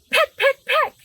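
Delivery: high, chirpy peck peck peck; pecking bird. Acted. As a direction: peck out each word like a little bird.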